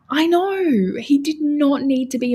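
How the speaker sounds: high emphatic I know; emphatic agreement with chat; excited agreement. Real, not acted. Agreeing with chat about accent.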